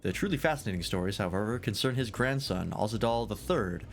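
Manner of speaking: lightly voiced, lilting tavern scholar; tavern storyteller. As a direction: play a genial tale-teller sizing up a guest. Voices storyteller telling the legend.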